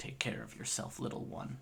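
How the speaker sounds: low, hushed whisper. Narrating a character who kisses your forehead, then speaks in a deeper voice. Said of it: "a deeper voice go".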